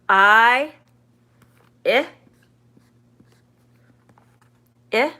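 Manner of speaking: "I" as its letter name, then "eh" as the short I in sit; long "I", then short "eh" repeated alone. Shown as a demonstration. Teacher contrasting the two I sounds for learners, long then short. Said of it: "long, short".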